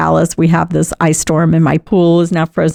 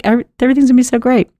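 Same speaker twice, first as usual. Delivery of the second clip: giddy optimism; 6 semitones higher, much faster than usual. Retold or imitated. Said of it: "I'm just like".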